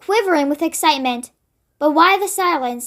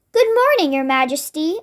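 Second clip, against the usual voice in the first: a hint of an elderly maid; lightly voiced older woman, polite; oldish woman's voice. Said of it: "in the voice of an oldish person".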